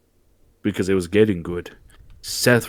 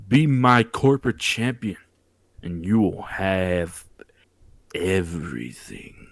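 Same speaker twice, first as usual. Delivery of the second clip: retold tempter; 3 semitones lower, 4 dB quieter than usual. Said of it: "That bald-headed fraud was feeling Cody".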